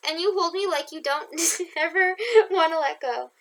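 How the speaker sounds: the line breaks into giggles; laughing. Real, not acted. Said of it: "oh, fuck".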